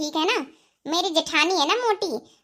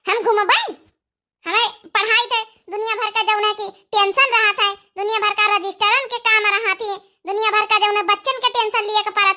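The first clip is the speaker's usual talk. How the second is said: indignant retort. Acted. Wife snaps back at husband.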